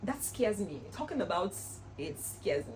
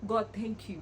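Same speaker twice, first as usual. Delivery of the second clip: quiet prayer of thanks; 5 dB quieter, slower than usual. Retold or imitated. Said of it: "I'm saying".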